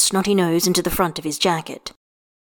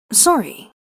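incredulous; 5 semitones higher than usual. A narrator's reading. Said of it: "he repeats incredulously".

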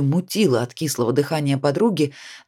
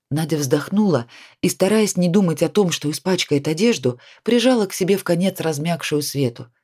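ordinary delivery

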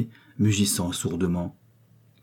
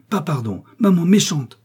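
high-pitched defiant protest, growing louder; shouting child; 9 semitones higher, 5 dB louder than usual. A narrator's reading. Boy refusing pardon as Victoire watches, defiant cry. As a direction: cry out like a stubborn little boy. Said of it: "criait le petit en se débattant".

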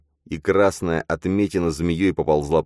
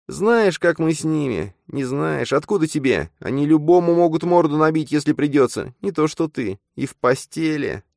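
quiet contempt; 13 semitones higher, 5 dB louder than usual. Acted. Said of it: "тихо начала говорить".

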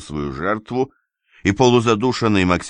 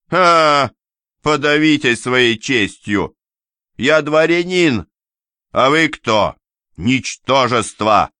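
scornful shout; 8 semitones higher, 4 dB louder, slower than usual. Acted. Nobleman sneers and insults.

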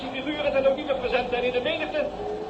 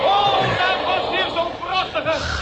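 awed cry; 5 semitones higher, slower than usual. Acted. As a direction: cry out in wonder at the flash. Excited man admiring the flashes.

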